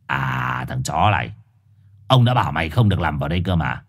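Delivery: low, gruff growling dog voice; a deep menacing guard dog. Acted. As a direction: growl it like a bullying street dog. Four-eyed dog growls at Trùn.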